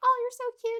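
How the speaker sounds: very high, loud, squealing pet voice. Retelling how she talked to her dog, in a high-pitched voice. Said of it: "I talked to her in a high pitched voice".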